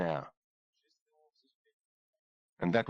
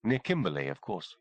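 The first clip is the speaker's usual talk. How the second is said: higher, poised woman's voice; composed, a touch amused; lightly voiced doctor; 4 semitones higher than usual. Kimberly tells the sergeant where she was born, lightly voiced woman. Kimberly explains her origins.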